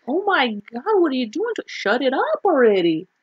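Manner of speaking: imitated irritation at a noisy baby; irritated. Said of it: "irritated look on her face, like".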